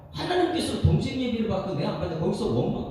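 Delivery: usual speaking voice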